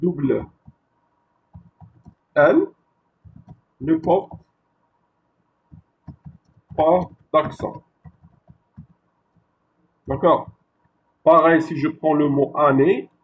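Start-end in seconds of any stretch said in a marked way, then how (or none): 0.0-7.8 each word set apart for the class; slow, spaced teaching. Shown as a demonstration. Teacher dictating the rule word by word, slow and spaced. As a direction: spell out the rule slowly, one word at a time. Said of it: "Donc le E devant".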